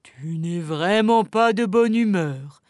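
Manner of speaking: understated sad reproach; sadly. Acted. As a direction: say it as if disappointed in him. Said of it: "dit Madame Ours tristement".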